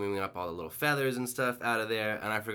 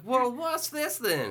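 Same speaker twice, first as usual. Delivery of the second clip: put-on high, slow puzzled old woman; old lady voice; 14 semitones higher, much slower than usual. Old woman questioning her daughter, high and slow. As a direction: drag it out like a confused grandma. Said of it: "It's like".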